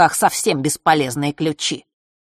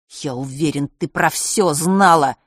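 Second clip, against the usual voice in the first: blurted in anger; 4 dB louder, slower than usual. Acted. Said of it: "гневно выпалил он".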